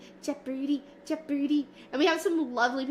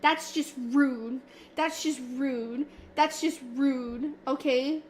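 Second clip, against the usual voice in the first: mock offended. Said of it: "why would you clip that".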